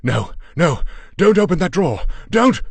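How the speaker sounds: panicked husband yelling a warning; shouting. A narrator's reading. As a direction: stop her before she opens it. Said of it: "and shouted".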